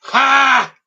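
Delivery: short loud high bark of glee; excited shout. Real, not acted. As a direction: burst out triumphant. Excited outburst.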